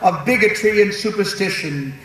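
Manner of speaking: a hint of a founding father speech. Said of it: "that's my founding father's voice".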